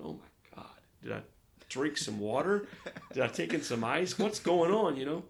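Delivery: rising from a hush to a loud alarmed cry; panicked worry. Retold or imitated. To himself in the hotel room, a loud rising panic. Retold panic over cramps.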